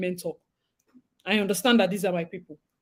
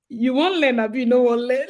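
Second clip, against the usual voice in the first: mock lecturer scolding; 3 semitones higher, 4 dB louder than usual. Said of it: "Dumasi teaches us in pidgin".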